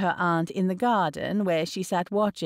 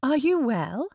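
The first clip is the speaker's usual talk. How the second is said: higher, concerned question; crying out; 6 semitones higher than usual. A narrator's reading. Daughter checking on her shaken father, crying out. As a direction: ask it with urgent worry. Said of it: "Elizabeth cried".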